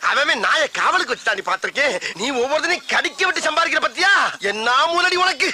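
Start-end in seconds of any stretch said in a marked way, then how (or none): 2.1-5.5 angry scolding. Acted. Scolding the old woman.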